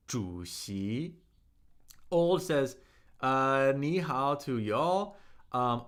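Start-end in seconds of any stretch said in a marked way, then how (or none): 0.1-1.2 主席 low on 主, climbing on 席; tone demonstration. Shown as a demonstration. Teacher repeating the word after naming its tones, 主席 low then rising. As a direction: say 主席 as third tone then second tone. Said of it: "Third tone, second tone".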